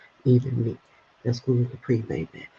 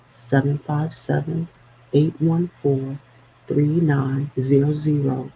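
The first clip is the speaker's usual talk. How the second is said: ad read. Real, not acted. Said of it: "I'll read it directly to you".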